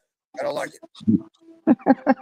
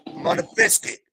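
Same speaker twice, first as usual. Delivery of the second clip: higher, lightly voiced Ted saying "biscuit"; higher-pitched mock of Ted's saying "I'm on a biscuit"; Ted's phrase. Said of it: "as Ted would say".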